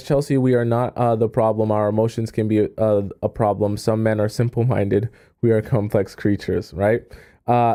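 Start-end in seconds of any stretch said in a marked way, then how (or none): none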